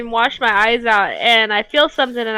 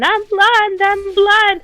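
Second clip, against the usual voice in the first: higher, louder comic panic; mock panicked yell; 10 semitones higher, 3 dB louder, much slower than usual. Pepper in his eyes, retelling his panicked scream with a higher voice. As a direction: cry it out like you're blinded. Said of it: "and I'm screaming".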